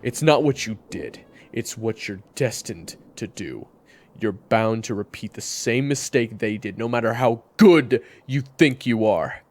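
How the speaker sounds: high, furious yell; angry shout. Acted. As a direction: rage at the enemy. Furious tirade at rival.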